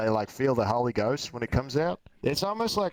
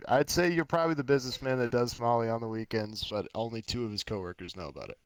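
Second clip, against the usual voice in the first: put-on Australian accent; 4 semitones lower, 4 dB quieter than usual. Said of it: "get a weird Australian accent while you said that".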